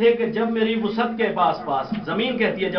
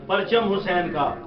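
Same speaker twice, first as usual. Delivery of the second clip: measured recital of verse for a gathering; poem recitation. Acted. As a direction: recite the couplet, lingering on key words. Recites couplets to audience.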